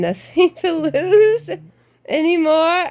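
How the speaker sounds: high. Real, not acted. Laughing at having nothing to lose.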